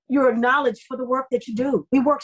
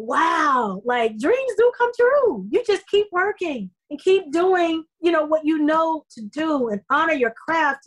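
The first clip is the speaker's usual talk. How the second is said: awed inner thought; 5 semitones higher, slower than usual. Retold or imitated. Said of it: "And I thought".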